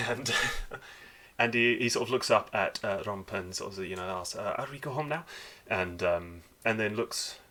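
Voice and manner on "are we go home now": put-on high, light child voice; young dwarf boy. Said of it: "like a young person's voice".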